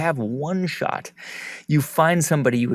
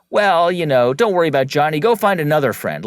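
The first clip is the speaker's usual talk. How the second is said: put-on louder, higher, brushing the kid off; a parent waving it away, raised voice; dismissive parent; 4 semitones higher, 7 dB louder than usual. Parent brushing off child's complaint.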